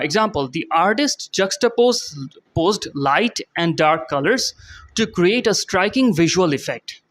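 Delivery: reading the definition aloud, very slowly. Shown as a demonstration. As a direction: spell the meaning out word by word for learners. Reads example sentence slowly.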